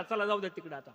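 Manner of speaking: normal talking voice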